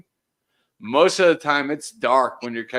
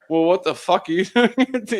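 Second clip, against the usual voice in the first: laughing; 3 semitones higher, 4 dB louder than usual. Retold or imitated. Students' reply, laughing.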